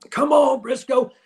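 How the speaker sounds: high, loud call to a friend. Retold or imitated. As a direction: yell over to him, teasing. Bruce calling Briscoe again.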